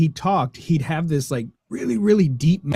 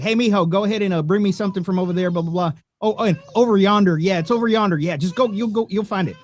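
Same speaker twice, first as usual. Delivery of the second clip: grandpa's redneck twang; 4 semitones higher, faster than usual. Retold or imitated. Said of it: "be like".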